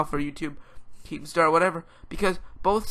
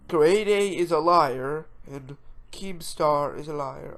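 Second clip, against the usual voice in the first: badly faked English accent, drawn out; slow, unconvincing English-accent imitation; terrible English accent; slower than usual. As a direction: attempt an English accent and miss. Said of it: "that's a terrible English accent".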